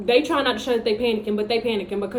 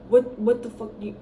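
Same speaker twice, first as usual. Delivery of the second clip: mock angry outburst. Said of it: "mad, like".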